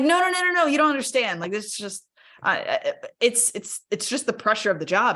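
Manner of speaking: high, loud, rushed protest; frantic denial. Retold or imitated. To the doctor, refusing to quit, high frantic protest. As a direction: wave it off in a panic, high and loud.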